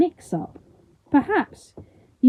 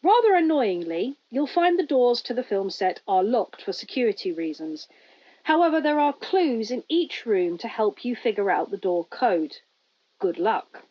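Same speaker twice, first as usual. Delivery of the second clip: tinny loudspeaker voice; 3 dB quieter than usual. Acted. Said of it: "adds the voice".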